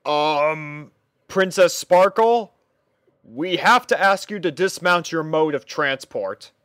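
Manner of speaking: a guard unsure how to ask a princess; timid palace guard; nervous guard. Acted. Guard character speaks.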